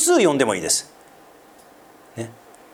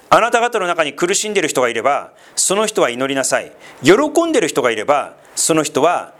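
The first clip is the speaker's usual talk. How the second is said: scripture reading. Acted. Reads scripture passage aloud.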